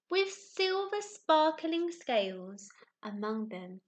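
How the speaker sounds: put-on slow, expressive read-aloud for little children; storybook narration. A narrator's reading. Teacher reading Rainbow Fish to her new class, gentle storytelling. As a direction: tell it like a bedtime story.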